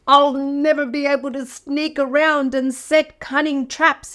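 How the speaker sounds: mild self-pitying moan; moaning wolf. Acted. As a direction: whine about your lost tricks. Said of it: "he moaned".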